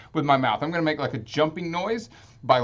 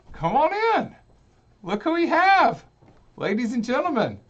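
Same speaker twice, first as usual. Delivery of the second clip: hammed-up higher show host welcome; announcer voice; 10 semitones higher, 4 dB louder than usual. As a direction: introduce the guest like a ringmaster. Host welcomes ninja guest.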